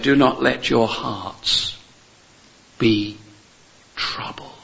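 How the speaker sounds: slow, dying away to a whisper on troubled; tender, fading. Acted. Preacher quoting Jesus to the disciples, slow and fading to a whisper. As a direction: let it fall to a breath at the end.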